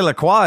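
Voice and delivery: La Croix said as "la kwah"; La Croix with a French "kwah" ending; mocking pronunciation. Shown as a demonstration. Being a jerk to make fun, mocking pronunciation. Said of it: "doing it to make fun of people".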